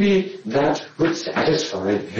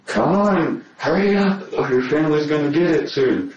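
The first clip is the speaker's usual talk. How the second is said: higher-pitched, urgent mock threat; retold threat; 7 semitones higher than usual. Suspect quoting a threat to detective, lightly acted urgency. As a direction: imitate someone pressing with a threat.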